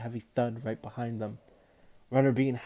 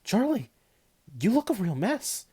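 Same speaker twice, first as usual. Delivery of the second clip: higher, louder shocked exclamation; exclaimed; 10 semitones higher, 6 dB louder than usual. A narrator's reading. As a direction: cry out at the sight of him. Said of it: "Fidelio exclaimed".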